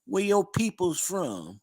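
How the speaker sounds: high, slow Southern drawl; high-pitched, unhurried Southern phrasing; Southern accent. Shown as a demonstration. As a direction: stretch it out like Southern folk. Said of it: "how they say down in the South".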